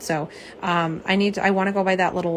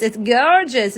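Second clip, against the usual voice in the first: attempted imitation of a friend's accent; Jill; slower than usual. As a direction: have a go at a friend's accent on "gorgeous", not quite landing it. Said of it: "as, as Jill would say".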